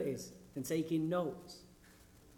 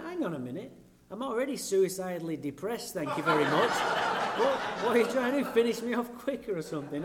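sarcastic retort; 3 semitones higher, 5 dB louder than usual. Retold or imitated.

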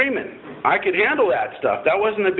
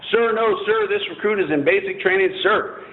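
1 recruit barking reply; 5 semitones higher than usual. Retold or imitated. Recruit answering drill instructor.

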